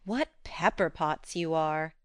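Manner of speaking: slow, weary sigh of a line. Acted. Jo sighing at two quarrelsome men, weary. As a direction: sigh it out, exasperated. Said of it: "sighed Jo".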